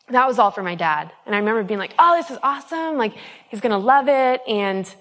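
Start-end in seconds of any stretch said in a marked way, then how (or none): 2.0-4.4 remembered excitement. Retold or imitated. Excited thinking of her dad.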